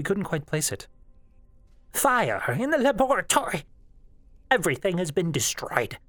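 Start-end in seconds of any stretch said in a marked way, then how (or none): 1.9-6.0 put-on high, frantic old woman's wail; distraught elderly woman. A narrator's reading. Elderly woman reporting the laboratory fire, frantic alarm. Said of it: "An elderly woman's voice".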